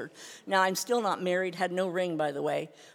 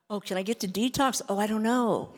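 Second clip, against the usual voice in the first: louder, whiny feigned doubt; mock helplessness; 3 semitones higher, 6 dB louder than usual. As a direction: play dumb about getting there. Mocking her own excuses.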